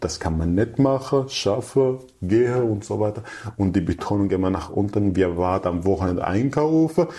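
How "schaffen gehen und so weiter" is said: "Schaffe" and "gehe" said Badisch style, the final n swallowed; Badisch dropped n. Shown as a demonstration. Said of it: "das N wird am Ende des Wortes verschluckt".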